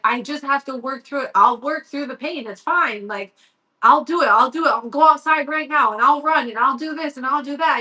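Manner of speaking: retold pleading, piling up the promises; upset. Upset son promising mom to work through pain, pleading. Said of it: "he was so upset".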